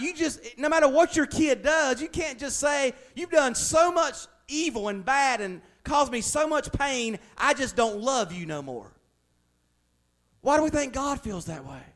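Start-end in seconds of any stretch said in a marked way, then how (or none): 3.1-8.9 shouted, higher, hurt and bitter; hammed-up furious parent outburst; mock angry parent. Parent shouting at a disobedient child, in mock fury.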